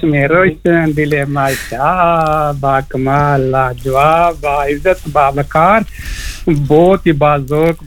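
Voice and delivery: slow, ornate recitation of compliments; flowery praise. Acted. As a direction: lay each compliment out slowly like a poem. Flowery on-air praise of host. (آہستہ، شاعرانہ انداز میں تعریف)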